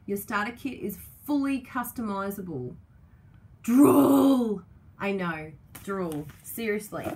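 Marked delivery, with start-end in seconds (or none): 3.6-4.6 much louder and higher, almost a wail; loud drooling cry. Real, not acted. Crafter swooning over the paper, loud wailing cry. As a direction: wail it like you can't resist.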